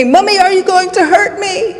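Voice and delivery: high-pitched imitation of an upset child; imitating upset son. Son asks his mother mid-argument, imitated high plea. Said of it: "he says to me".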